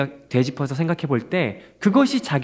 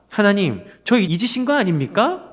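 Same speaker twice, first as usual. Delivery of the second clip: higher, pleading question to God; plaintive complaint; 6 semitones higher than usual. Retold or imitated. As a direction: lightly act a hurt plea. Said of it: "이렇게 말하는 거죠".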